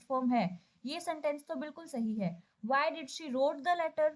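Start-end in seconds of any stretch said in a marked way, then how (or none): 2.7-4.1 wrote read out slowly, word by word; slow careful reading. Shown as a demonstration. Teacher rereading the wrong option slowly for students. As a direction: let each word of the wrong sentence stand out. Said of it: "Wrote क्या है?".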